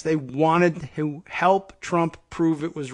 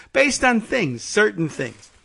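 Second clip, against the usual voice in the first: evasive Trump; 5 semitones higher, 3 dB louder than usual. Retold or imitated. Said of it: "acted Trump answer".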